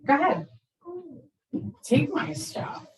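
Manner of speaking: mock teen shrugging off punishment; defiant kid. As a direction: dare them to take it all. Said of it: "they're like".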